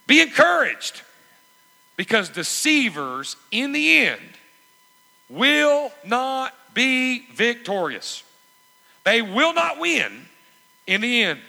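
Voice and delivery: slow, soaring preacher's cry, high and loud; full-force preaching. Acted. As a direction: ring it out slowly like a promise of victory.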